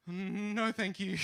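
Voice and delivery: mock-polite chipper decline; cheery polite refusal. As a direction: turn her down with breezy politeness.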